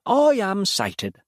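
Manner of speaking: slow, high, eerie calm; the child demon answering Noah after feeding, eerily calm; sated child demon. A narrator's reading. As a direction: savor each word, fully fed.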